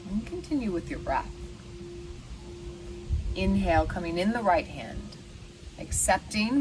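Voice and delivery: unhurried meditation guide, long pauses; lightly meditative, leaving room to breathe; guided meditation. Acted. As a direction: guide listeners gently through the breath, pausing between phrases.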